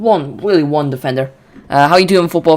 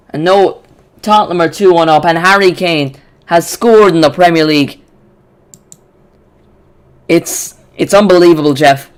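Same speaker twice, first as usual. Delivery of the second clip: loud, stunned commentary on a goal; real disbelief as the rival team scores; excited goal call; 2 semitones higher, 5 dB louder than usual. Real, not acted. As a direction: call it like you can't believe it. Goal for rival team, live reaction.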